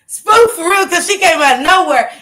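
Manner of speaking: high, loud spooked retelling. Real, not acted. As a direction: blurt it out still shaken by the fright. Recalls fright, voice jumps up.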